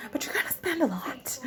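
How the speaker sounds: laughing. Real, not acted. Laughing about spending at powwows.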